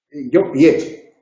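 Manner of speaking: "pie" said slowly as pi-é, the stress on the final e; careful pronunciation. Shown as a demonstration. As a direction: draw out "pie" deliberately. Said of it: "Hay una diferencia de pronunciación". ("pie" pronunciado despacio, pi-é, con fuerza en la e)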